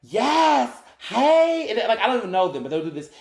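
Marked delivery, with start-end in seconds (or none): 0.1-1.6 very high, showy, affected performance voice. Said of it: "a whole accent change and, and performance".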